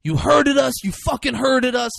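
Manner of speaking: high, loud mimicry of the slurred accusation; hammed-up repetition of hurted, stretched and wailed; imitating the mispronounced line. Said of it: "He keeps saying".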